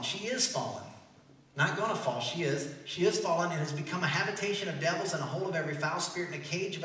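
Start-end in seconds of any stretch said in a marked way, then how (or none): 0.0-0.8 IS leaned on as settled fact; stress on IS. Shown as a demonstration. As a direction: punch the word "is". Corrects "gonna fall" to "is.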